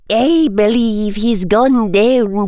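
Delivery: high, cool, formal reply; chilly. A narrator's reading. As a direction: answer with cold formality. Minerva answers Quirrell coldly.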